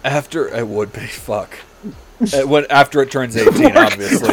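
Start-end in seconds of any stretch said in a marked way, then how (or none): 2.3-4.3 awkward high squeak. Real, not acted. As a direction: voice jumps high on obviously. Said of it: "Why did you say it like that".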